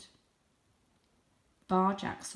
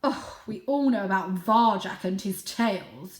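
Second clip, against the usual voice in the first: declaring; 6 dB louder than usual. Acted. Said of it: "declared Father".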